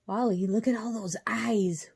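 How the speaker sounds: urgent stage whisper. A narrator's reading. Cheyenne to Wally about the eyes in the dark, whispered. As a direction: whisper it in alarm, airy but forceful. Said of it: "whispered Cheyenne".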